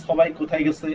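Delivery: put-on Old Dhaka accent with plain s sounds; Dhakaiya accent. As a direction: imitate Dhakaiya speech, s instead of sh. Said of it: "যেমন ঢাকাইয়ারা বলে না". (ঢাকাইয়া টানে, দন্ত্য স দিয়ে)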